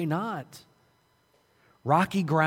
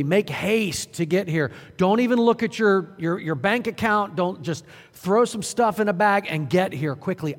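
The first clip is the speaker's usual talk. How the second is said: urgent apostle. Retold or imitated. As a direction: rush him, no excuses. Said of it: "He said".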